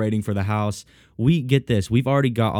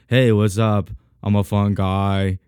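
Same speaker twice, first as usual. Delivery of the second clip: lazy understated athlete voice; Kawhi Leonard impression; 2 semitones lower, slower than usual. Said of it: "That's what I sound like".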